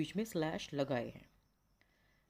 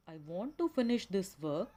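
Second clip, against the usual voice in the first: slow teaching read, pausing after "work"; pause-marked phrasing; much slower than usual. Shown as a demonstration. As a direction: read "I want to finish this work" as one slow tone group, then stop. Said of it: "slash आ गया है".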